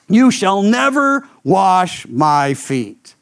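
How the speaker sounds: slow, firm "You shall never wash my feet."; self-assured refusal. Retold or imitated. Peter flatly refusing to let Jesus wash his feet, slow and firm. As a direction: lay it down slowly, every word final. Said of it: "You gotta love Peter. No one was ever more self-assured".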